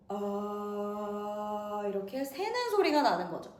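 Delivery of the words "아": slow, airy leaking vowel; breathy ah. Shown as a demonstration. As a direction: let the breath leak out. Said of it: "얘를 많이 벌려볼게요".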